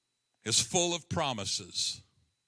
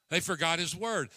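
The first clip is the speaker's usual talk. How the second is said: louder repeat; 6 semitones higher than usual. Shown as a demonstration.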